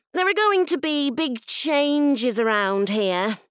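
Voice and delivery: high-pitched headmistress address; imperious, high-voiced school head; stern new headteacher. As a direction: announce it high, to the whole hall.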